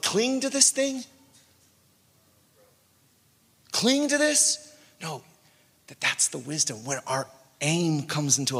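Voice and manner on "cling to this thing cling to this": incredulous. Retold or imitated. Mocking the idea of clinging.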